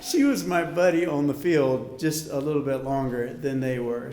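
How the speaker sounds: fighting back tears; words pushed through emotion; choking up. Real, not acted. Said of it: "Whew, here it comes again".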